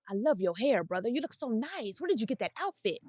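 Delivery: butter them up gently so they forget the offense; sweet flattery. Retold or imitated. Flattering a stranger after a dap, softly gushing.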